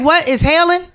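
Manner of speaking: high, loud mock disbelief; mock surprise. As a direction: act shocked at the hail. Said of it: "we be like".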